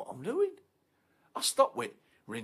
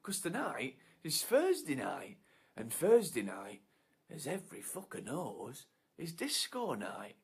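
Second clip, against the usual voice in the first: menacing declaration; 4 semitones higher than usual. Acted.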